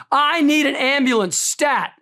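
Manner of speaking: recreate the nurse yelling for help down the hall; retold scream. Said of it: "screaming down the hallway".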